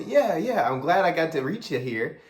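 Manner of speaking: cheerful high-energy sales voice; matching high energy. Shown as a demonstration. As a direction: bounce back at their excitement. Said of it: "So you see that subtle difference?".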